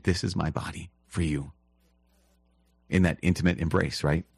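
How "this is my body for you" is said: quiet, tender words to his bride; tender whisper-soft. Retold or imitated. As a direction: say it softly as to a loved one.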